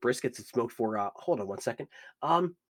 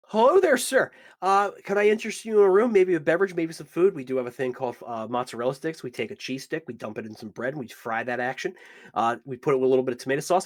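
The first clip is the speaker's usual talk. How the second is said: eager bartender. Acted. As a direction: sell the menu with gushing cheer. Bartender figure greets the hero.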